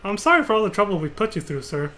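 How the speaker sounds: grateful stewardess, apologetic. Acted. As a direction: thank a helper in a lifted, sweet voice.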